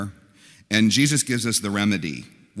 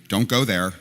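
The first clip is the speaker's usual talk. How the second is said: sassy "don't go there"; 4 dB louder than usual. Retold or imitated. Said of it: "when people say this".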